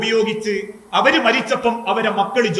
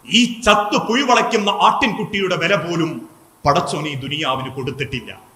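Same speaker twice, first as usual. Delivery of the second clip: tearful saying; 5 semitones lower than usual. Retold or imitated. Preacher voicing the Prophet beside the dead lamb, mildly tearful. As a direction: let it fall away in understated sorrow. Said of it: "പ്രവാചകൻ കണ്ണുനീരോടെ പറഞ്ഞു".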